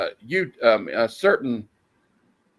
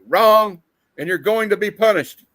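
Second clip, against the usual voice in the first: menacing villain; 7 semitones higher, 6 dB louder than usual. Acted. Reading villain's threat.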